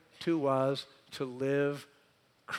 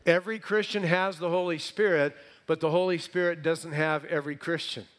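louder, driving the contrast on Christian and Spirit; restated for emphasis; 4 semitones higher, 6 dB louder than usual. Shown as a demonstration. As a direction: hammer home the reversal. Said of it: "That's the difference".

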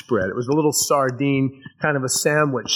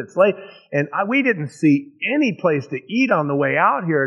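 pleading disciples; 5 semitones higher than usual. Acted. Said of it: "the disciples had also come to Jesus and said".

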